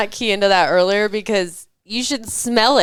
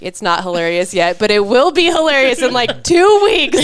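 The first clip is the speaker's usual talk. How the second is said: annoyed retort. Retold or imitated. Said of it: "right now I'm just pissed".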